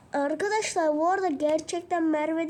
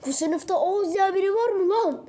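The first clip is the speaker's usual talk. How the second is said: loud, raised challenge to the class; jealous yell; 4 semitones higher, 8 dB louder than usual. Acted. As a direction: shout it at the whole room. Jealous student yelling at the class. (kıskanç öğrencinin sınıfa bağırması)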